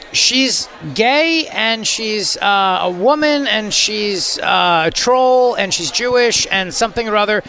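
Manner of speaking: slow, sneering list of excuses; mocking list. Host mocking a union boss's excuses, slow and sneering. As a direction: drag out each excuse with scorn. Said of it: "All the excuses that she's made".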